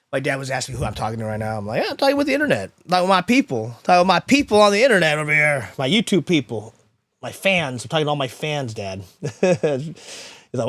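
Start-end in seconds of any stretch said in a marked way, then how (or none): 1.8-9.0 bright upbeat radio host voice, pitched up at the start. Retold or imitated. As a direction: put on the smooth radio announcer for dad. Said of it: "why do you sound like that".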